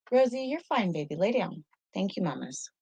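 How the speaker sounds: soft high dog talk; pet talk. Real, not acted. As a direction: gently tell her to settle. Settling her dog.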